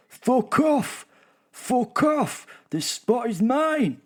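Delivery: high, loud squawking bird; angry bird voice. Acted. Bird chasing rivals off its spot, loud high screech. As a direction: shriek it like a furious little bird guarding its patch. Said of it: "was translated as".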